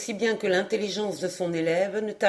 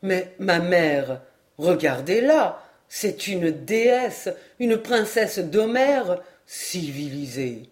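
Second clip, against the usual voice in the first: indignant son; 2 semitones lower, slower than usual. Acted. René defending Atlantis to his mother, slow and indignant. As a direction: plead for her, slowly, then sink into scorn.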